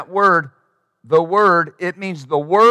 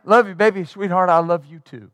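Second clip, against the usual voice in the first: loving. Retold or imitated. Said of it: "Love doesn't sound that way".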